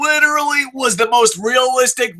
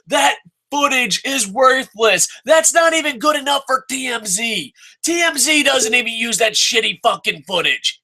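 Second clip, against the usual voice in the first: shouting rant; 4 semitones higher than usual. Real, not acted. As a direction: yell it at the screen. Shouting at the show.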